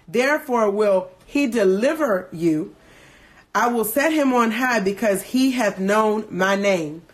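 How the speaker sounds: solemn King James recitation; scripture reading. Acted. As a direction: read it like a psalm in church. Reads the psalm on.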